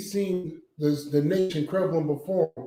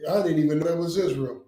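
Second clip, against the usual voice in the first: ordinary delivery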